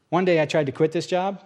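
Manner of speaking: normal talking voice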